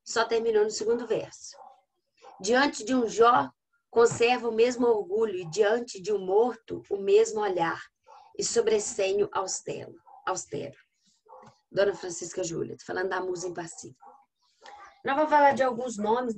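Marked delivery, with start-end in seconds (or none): 2.4-10.8 poem recitation. Acted. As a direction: recite with deliberate pauses between phrases. Reads a poem to the class.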